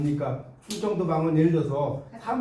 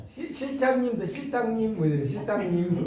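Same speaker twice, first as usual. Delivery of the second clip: lisping voice. Shown as a demonstration. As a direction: lisp the words like a small child. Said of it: "혀 짧은 목소리".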